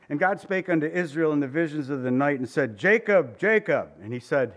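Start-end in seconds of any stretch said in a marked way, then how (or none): 2.8-3.9 God calling. Retold or imitated. God calls Jacob, louder.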